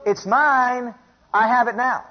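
high, insistent claim with drawn-out MINE; defiant declaration. Acted. Defiant answer to the devil.

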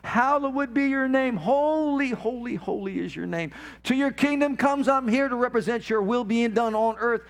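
passionate spoken prayer rising to praise; fervent prayer. Acted. Preacher praying aloud before the congregation, fervent. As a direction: pour it out as worship.

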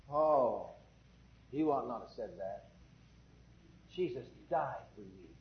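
low, soft, grieved reproof; hushed rebuke. Acted. Preacher answers the complaining believer, hushed reproof. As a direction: drop low and quiet to correct them.

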